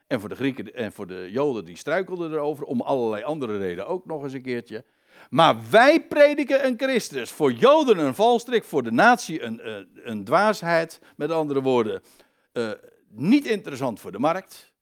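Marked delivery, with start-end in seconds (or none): 5.3-11.0 higher, louder scripture proclamation; emphatic preaching. Acted. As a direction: proclaim the verse to the congregation. Preacher declaims the verse. (nadrukkelijk preken, met luide, hogere stem)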